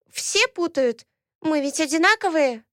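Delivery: put-on high childish voice, explaining; a small girl eagerly telling; chatty little girl. Ayat explains to Alaena, chatty childish voice.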